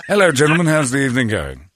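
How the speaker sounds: put-on British greeting; lightly hammed British politeness; British accent. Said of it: "unbelievable accent I've ever heard".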